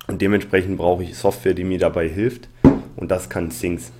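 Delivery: lisping from a cold; slushy lisped s sounds. Real, not acted. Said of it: "das Lispeln kommt übrigens, weil ich erkältet bin".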